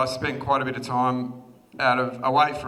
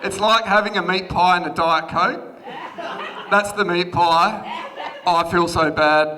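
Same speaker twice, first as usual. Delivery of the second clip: laughing; 2 semitones higher, 5 dB louder than usual. Real, not acted. Laughing at slideshow mismatch.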